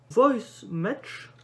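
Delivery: English words in a thick French accent; French-accented attempt at English; bad English accent. Real, not acted. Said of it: "j'ai un accent anglais pourri".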